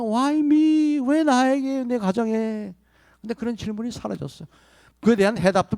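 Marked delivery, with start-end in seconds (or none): 0.0-2.7 higher, whiny "why me" lament; mock complaining. Preacher mimics people asking why me, higher whine. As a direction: imitate a self-pitying sufferer. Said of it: "많은 사람이 그러잖아".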